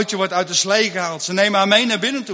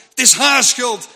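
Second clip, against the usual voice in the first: louder self-blame; 3 semitones higher, 5 dB louder than usual. Acted.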